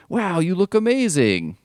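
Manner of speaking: high, slow, dopey admiring voice; goofy smitten Flash. Retold or imitated. Flash complimenting Liz's haircut, slow high goofy gush. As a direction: gush over her new haircut like a lovestruck jock.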